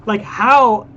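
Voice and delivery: incredulous, with emphatic bursts; real exasperated disbelief. Real, not acted. Streamer appalled by the comparison he just heard, exasperated disbelief. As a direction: let frustration burst out on the key words. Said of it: "I'm so frustrated right now".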